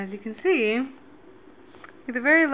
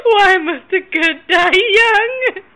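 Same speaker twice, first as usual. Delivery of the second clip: mock tragic lament; 5 semitones higher, slower than usual.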